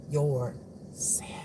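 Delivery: soft, unvoiced whisper; whispered sign-off. Real, not acted. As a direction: let the word drop to a whisper. Intimate sign-off to viewers.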